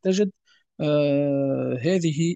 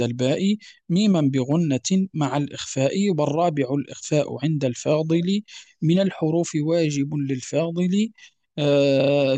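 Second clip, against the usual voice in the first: slow, metrical recitation of a teaching poem; verse recitation. Acted. Teacher reading the tajweed verses to students, verse recitation. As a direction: recite verse steadily, stretching the rhymes.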